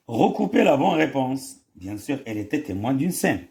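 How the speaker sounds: slow, careful dictation read; reading aloud. Shown as a demonstration. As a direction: read it out slowly for the class. Reads French answer slowly. (قراءة بطيئة للإملاء)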